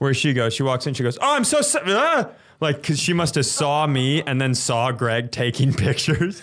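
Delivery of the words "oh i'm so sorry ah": very high, startled gasp with catch in voice. Retelling how a woman walked in and reacted, imitating a hitch in her voice. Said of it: "had a hitch in her voice".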